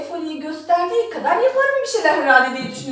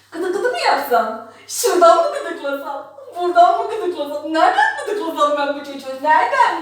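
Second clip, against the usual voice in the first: laughing. Real, not acted. Tickling the baby, laughing.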